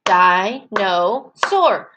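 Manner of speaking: "Dinosaur" very slowly, one beat per syllable; teacher chanting "Dinosaur" syllable by syllable; clapped-out syllables. Shown as a demonstration. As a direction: split "Dinosaur" into three spaced chunks. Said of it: "We'll do it again".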